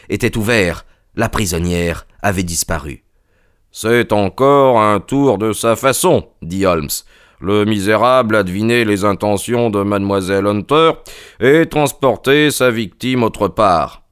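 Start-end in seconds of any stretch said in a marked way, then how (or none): 3.7-14.0 Holmes indigné. Acted. Voices Holmes deducing. (Holmes, légèrement indigné, en appuyant)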